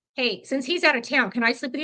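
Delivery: ordinary delivery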